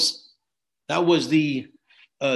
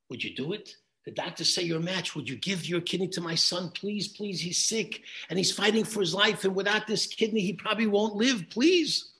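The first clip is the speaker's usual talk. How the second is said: pleading father; 4 semitones higher, 4 dB quieter than usual. Retold or imitated. Father begs stranger for kidney.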